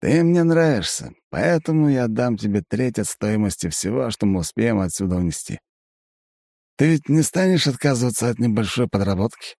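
high, wheedling elf voice; Aiven. A narrator's reading. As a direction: tempt him with a sly offer. Elf offers a cut.

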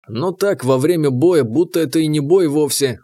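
ordinary delivery, nothing marked

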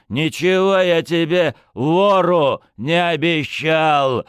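loud, harsh, slowed final words; rough retort. Acted. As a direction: slam the thief down. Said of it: "грубо сказал Орлов".

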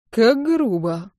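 slow, smirking mock offence; snide. A narrator's reading. Dustin teases Sunny after her retort, slow and snide. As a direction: savour the fake hurt, slowly. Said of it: "улыбается Дастин ехидно".

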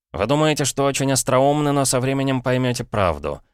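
put-on a boy begging his uncle to hear him out; desperate boy Paul. Paul pleads with his brother-in-law, urgent boyish voice.

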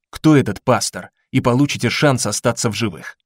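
calm, menacing interrogator voice; coolly threatening, in control; cold interrogator. Acted. Berlin interrogates wounded man.

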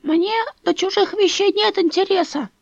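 high, prim, offended; with pursed lips, prim; old woman bristles at Dasha, prim. A narrator's reading. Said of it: "старуха поджала губы".

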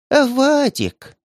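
put-on high, slow frail old woman whisper. A narrator's reading. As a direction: breathe it out like a frail granny. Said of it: "тихо прошептала старушка".

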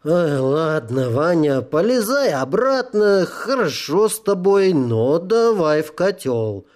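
slow, tipsy coaxing devil; drunk devil. Acted. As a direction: drunk devil sending him back in. Drunk devil coaxes soul.

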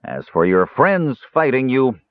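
lightly sneering dwarf voice; a touch of sneer. Acted. Dwarf taunts Caramon about his friends, light sneer. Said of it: "the dwarf sneered".

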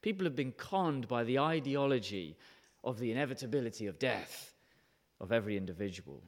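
lightly put-on American accent; a hint of an American accent, quoting. The preacher quoting a tech billionaire's motto in a light American accent. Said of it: "imagine this in American accent".

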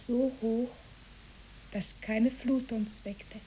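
slow sleepy whisper; whispered while falling asleep. Acted.

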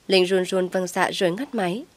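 ordinary delivery, nothing marked

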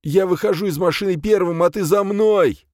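forceful, high-pitched instructions; threatening orders. Acted. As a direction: lay down orders at gunpoint. Gunman barks orders at hero.

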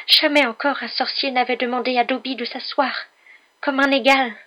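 high, loud wail building to the end; sobbing elf. A narrator's reading. Elf never treated as an equal, sobbing wail. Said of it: "sanglota l'elfe".

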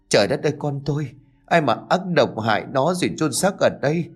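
high-pitched, acted lament; a mother's grieving cry, moderately voiced; wailing. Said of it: "rồi gào khóc".

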